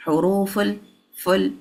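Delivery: حروف الفل with the "ful" cut short; wrong joining demo. Shown as a demonstration. Teacher showing students what not to say, wrongly shortened joining. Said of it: "do not say".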